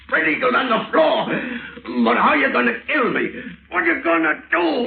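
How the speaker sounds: high, fast frightened questions; rising panic. Acted. Bound victim begs his captor to say how he'll die, panicking.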